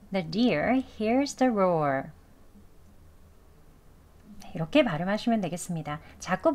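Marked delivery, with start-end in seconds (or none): 0.1-2.0 The deer hears the roar slowly, R softened; slow it down but keep Rs light; slowed casual reading; slow with weak R. Shown as a demonstration. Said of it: "속도는 천천히, 발음, 어른 약하게 할게요".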